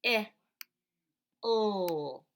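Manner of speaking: "I, L." spoken as split sounds with pauses; separate sounds. Shown as a demonstration. Teacher segmenting hill into sounds. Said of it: "So I hear".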